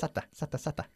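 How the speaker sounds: "Sata, sata, sata" quick and soft, unstressed second a; syllable drill. Shown as a demonstration. Teacher drilling a student, "Sata" softly repeated as SA-tuh. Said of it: "No se pronuncia Saturday".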